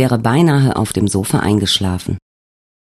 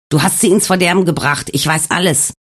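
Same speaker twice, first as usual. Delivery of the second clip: higher, raised angry tirade; furious accusation; 4 semitones higher than usual. Acted. Alex rages at Wolfgang over the diary, higher. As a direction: hurl the blame at him.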